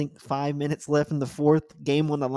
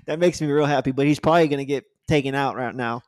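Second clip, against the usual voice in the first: lazy cowboy twang, a touch louder; 5 dB louder than usual. Real, not acted. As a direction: talk like a cowboy on the range. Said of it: "I sound like a cowboy right there".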